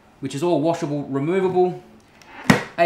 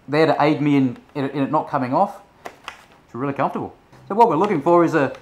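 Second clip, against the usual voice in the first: cheeks squeezed by helmet pads; muffled behind chin bar; through a full-face helmet; 5 dB louder than usual. Real, not acted. Seen 1: Full-face helmet worn throughout; cheek pads press his face and jaw.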